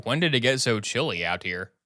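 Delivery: softly voiced chilly old man; shivering. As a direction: shiver as you ask. Richter feeling suddenly cold.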